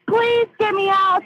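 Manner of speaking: slow, frightened begging; desperate pleading. Real, not acted. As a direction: plead for your life. Trapped, begging dispatcher.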